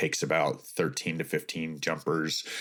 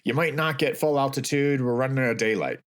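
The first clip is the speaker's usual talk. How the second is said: raised pitch easing down at the end; retold holler; 5 semitones higher than usual. Pilot warning skydivers on climb-out, lightly acted holler. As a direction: imitate a pilot calling back to passengers. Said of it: "Ray hollers back".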